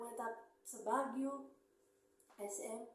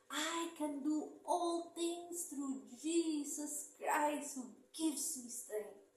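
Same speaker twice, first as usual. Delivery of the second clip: repeating a verse; 5 semitones higher, slower than usual. Retold or imitated. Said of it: "And I kept saying".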